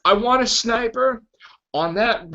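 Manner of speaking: high-pitched comic villain making his discovery; mock-eager boss giving orders; acted-out Kingpin. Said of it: "And then the Kingpin's like".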